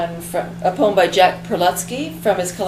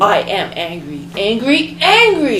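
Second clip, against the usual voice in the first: enraged shriek. Acted. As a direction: escalate each angry into a scream. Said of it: "Shrieked enraged Belinda Blue".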